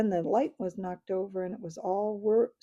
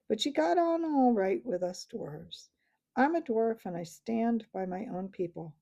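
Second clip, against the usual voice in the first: cold voice. Acted. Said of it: "said Knickerbock in a cold voice".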